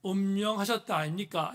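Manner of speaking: 경상도 말씨를 가볍게 흉내; lightly imitated Gyeongsang dialect; 경상도 사투리. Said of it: "경상도 버전으로". (경상도 사투리를 살짝 흉내 내어)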